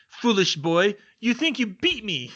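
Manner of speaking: high, loud, slow words through a mad cackle; chained Crouch gloats at Neville, cackling slowly; cackling villain. Acted. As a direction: gloat and laugh like a madman. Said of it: "Crouch cackled".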